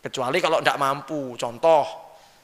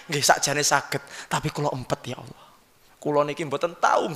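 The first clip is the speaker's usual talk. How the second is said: humble husband answering; 6 dB quieter than usual. Acted. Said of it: "Pernah marah sama istri".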